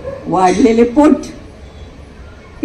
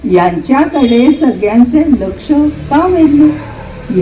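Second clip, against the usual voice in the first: comic verse recitation; 3 semitones higher than usual. Acted.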